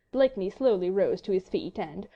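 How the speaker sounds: plain reading voice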